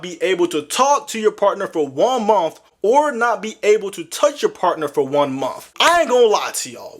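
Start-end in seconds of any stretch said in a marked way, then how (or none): none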